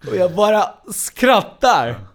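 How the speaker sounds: words squeezed out through loud laughter; real laughter, high and slow; laughing. Real, not acted. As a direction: laugh while saying it. Laughing while telling.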